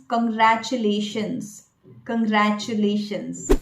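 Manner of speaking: "congratulations" with a reduced first syllable, kun-GRA-chu-lay-shuns; correct pronunciation. Shown as a demonstration. Coach modelling the word for learners, correct pronunciation. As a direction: say "congratulations" with a ch sound in the middle. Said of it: "So the correct pronunciation is".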